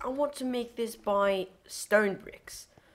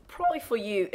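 voice cracking; 4 semitones higher, faster than usual. Real, not acted. Gamer explaining to viewers, accidental voice crack. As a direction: voice breaks upward mid-phrase. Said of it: "sorry, my, uh, voice crack".

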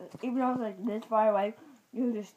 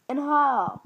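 put-on louder playful Irish accent; 4 semitones higher, 7 dB louder than usual. Girl tells viewers where she's from, put-on Irish accent. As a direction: lilt it in a mock Irish accent. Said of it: "I was in my Irish accent".

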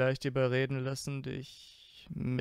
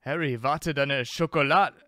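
calling out; 3 semitones higher, 7 dB louder than usual. Acted. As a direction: call after him, laughing protest. Draco calls out, pulled away.

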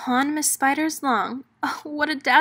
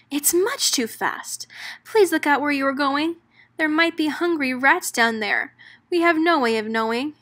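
a touch of panic, higher and fast; mild shriek; 4 semitones higher than usual. Acted. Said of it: "Poor Holly shrieked".

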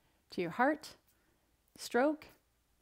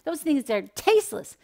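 louder, higher whiny complaint; mock audience complaint; 3 semitones higher, 9 dB louder than usual. Audience imagined groaning about leafy greens, mock whiny and louder. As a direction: play the groaning listener dreading rabbit food. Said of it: "You're going".

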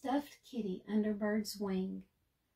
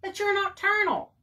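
whiny protest; 11 semitones higher, 6 dB louder than usual. A narrator's reading. Bird whining to Raccoon that nobody will play. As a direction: whine like a tired child.

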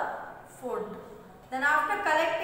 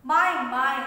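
distressed cry; 9 dB louder than usual. Acted. Drowning ant cries out.

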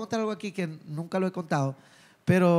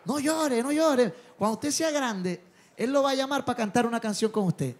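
comforting father; 5 semitones higher than usual. Retold or imitated. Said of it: "me agarró así por el brazo".

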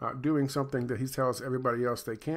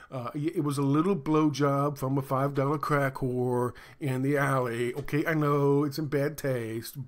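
mocking Newsom. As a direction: play a caught governor grovelling to his wife, lightly voiced. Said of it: "when his wife busts him".

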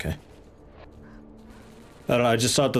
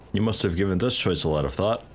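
dry, sarcastic read. Acted. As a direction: say it with heavy sarcasm. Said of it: "I read that sarcastically".

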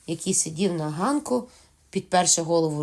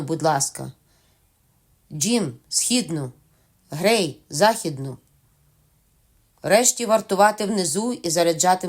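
loud, brisk commands to his men; rally the defenders, firm and loud; captain ordering his crew to their posts; giving orders; 3 dB louder than usual. Acted. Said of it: "наказав нам".

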